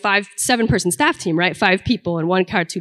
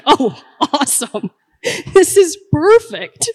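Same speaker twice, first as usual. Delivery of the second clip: high, drawn-out fake enthusiasm; mock delight; 7 semitones higher than usual. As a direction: feign being thrilled, pitched up and slow. Mock delight at karaoke with laryngitis.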